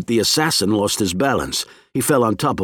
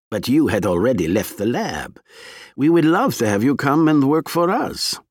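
a hint of a cold Russian agent; smooth, unhurried threat from a spy; menacing spy; 4 semitones higher than usual.

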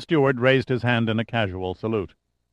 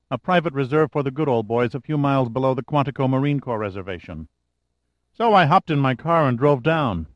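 lightly voiced brisk secretary, a bit higher; a hint of an eager, efficient assistant reporting in; 3 semitones higher than usual. Secretary reports her failed search to her boss, lightly voiced and brisk.

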